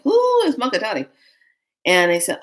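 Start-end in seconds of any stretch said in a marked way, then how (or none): 0.0-1.1 loud, high startled question; acted bewilderment. Showing how anyone would react, acts loudly bewildered. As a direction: demand it in comic alarm. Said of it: "and you go like".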